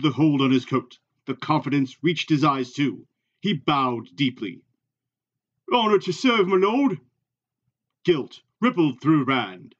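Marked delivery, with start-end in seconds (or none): 5.7-7.0 higher, earnest servant's pledge; bow and say it with devotion; respectful Hurin. Acted. Hurin pledging service to Rand, earnest. Reader voices Hurin bowing.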